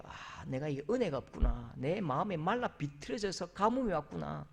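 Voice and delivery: quiet self-realization. Retold or imitated. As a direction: sigh it out under the breath. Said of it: "한번 거울을 보셔야 돼요".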